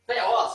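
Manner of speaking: THEOS begun with a puffed, airy T; almost F-like opening on THEOS; aspirated T. Shown as a demonstration. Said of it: "É um T meio soprado".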